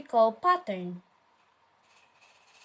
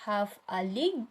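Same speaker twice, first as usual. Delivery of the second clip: "half a league" said word by word, evenly spaced; alternative scansion; 2 semitones lower, 5 dB quieter than usual. Shown as a demonstration. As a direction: separate HALF, A and LEAGUE a little, softly. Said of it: "is a pattern of two".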